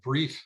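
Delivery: brief said with a small push; stress on brief. Shown as a demonstration. Mayor asking council for brief talks, stressing brief. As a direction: lean on the word brief to keep it short. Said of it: "and I emphasize the word brief".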